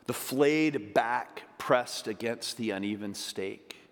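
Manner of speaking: slow, grave and deliberate; solemn slow reading. Acted. A preacher painting the crucifixion for the church, solemn. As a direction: linger over each image of the cross.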